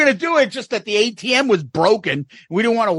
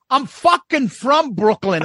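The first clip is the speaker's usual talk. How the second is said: mildly heated retort, pitched up and drawn out; retold indignant protest; 6 semitones higher, slower than usual. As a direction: imitate an actor defending his own accent. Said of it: "He goes".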